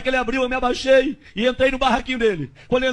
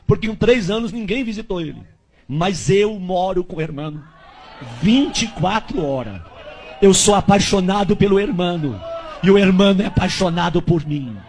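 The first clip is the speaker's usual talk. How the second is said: slow, lower, intimate voice of the Spirit; Holy Spirit voice; 4 semitones lower, slower than usual. Retold or imitated. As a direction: voice of the Spirit whispering in his ear. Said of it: "o Espírito Santo veio na minha orelha e falou".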